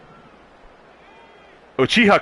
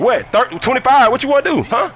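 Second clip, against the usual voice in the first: rising excitement; 8 semitones higher than usual. Real, not acted. Raising the bet on stream.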